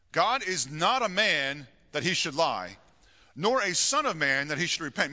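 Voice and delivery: measured, emphatic Bible reading; scripture reading. Acted. Pastor reading Numbers to his congregation, measured scripture reading. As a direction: read the verse out firmly, phrase by phrase.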